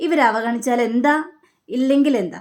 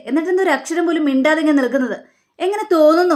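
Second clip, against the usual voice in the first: angry scolding; 4 semitones higher than usual. Acted. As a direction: tear into her faster and faster. Son scolds mother angrily.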